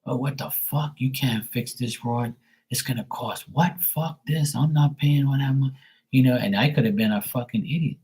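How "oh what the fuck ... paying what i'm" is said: higher, exasperated complaining; hypothetical irate customer; mock angry rant. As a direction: play the rude customer griping. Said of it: "with a shitty attitude and been like".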